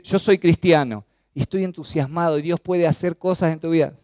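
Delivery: lively, lifted declaration of faith; enthusiastic testimony. Shown as a demonstration. Believer telling others of their faith, demonstrated enthusiasm. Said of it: "hágalo con entusiasmo".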